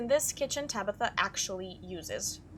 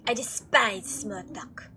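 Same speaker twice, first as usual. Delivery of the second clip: disdainful Frou Frou; 2 semitones lower, 4 dB louder, much slower than usual. Acted. Voices Frou Frou's curt answer.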